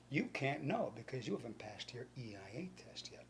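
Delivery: hushed mock-mysterious answer; retold whispered taunt; secretive whisper.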